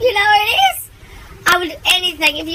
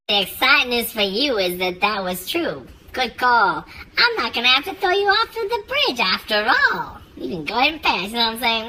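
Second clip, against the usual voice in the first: a hint of a low gruff guard; bridge keeper voice; 4 semitones lower than usual. Bridge keeper letting the rabbit cross, lower voice.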